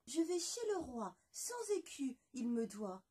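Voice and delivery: high, matter-of-fact little voice; half-chick's reply. Acted. La moitié de poulet répond fièrement, voix aiguë. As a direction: state your errand proudly.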